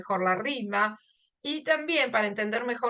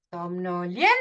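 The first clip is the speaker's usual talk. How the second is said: SOMNOLIENTO with LIEN raised, then ENTO apart; stress on LIEN; 5 semitones lower than usual. Shown as a demonstration. Teacher showing where the force falls, stress on LIEN. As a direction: climb to LIEN, pause, finish the word. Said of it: "ahí es donde está la fuerza".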